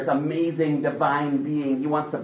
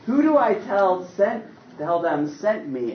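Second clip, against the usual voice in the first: fumbling mock Moses; 6 semitones higher than usual.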